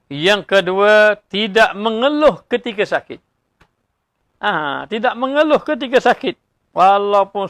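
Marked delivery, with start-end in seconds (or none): 0.1-3.2 "yang kedua" drawn out slowly, each word weighted; preacher spells out his second point slowly to the congregation, drawn out; slow emphatic point. Shown as a demonstration. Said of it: "repeating point slowly, emphatic".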